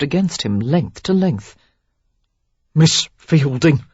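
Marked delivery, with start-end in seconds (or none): 2.7-3.8 slow, effortful address; forcing the name out slowly; strained. A narrator's reading. Derek holding back, effortful. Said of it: "he said with great effort".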